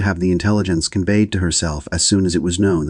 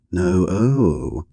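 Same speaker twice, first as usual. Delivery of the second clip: cried out. A narrator's reading. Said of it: "cried Missus Jennings".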